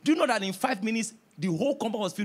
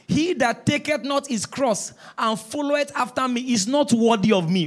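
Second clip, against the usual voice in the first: scripture reading; 4 semitones higher, 5 dB louder than usual. Acted. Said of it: "Jesus says in Matthew".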